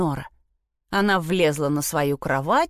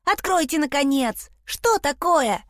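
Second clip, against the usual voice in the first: boy's high fake falsetto pushed even higher; strange falsetto; 8 semitones higher than usual. A narrator's reading. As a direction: keep up the squeaky disguise, insisting. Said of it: "странный фальцетик".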